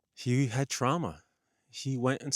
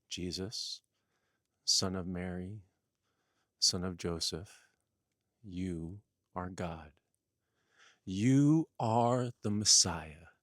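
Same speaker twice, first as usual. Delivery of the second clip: voice of God; 5 semitones higher, 6 dB louder than usual. Acted. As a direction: build from a hushed call to a booming revelation. God's voice speaking to Jesus.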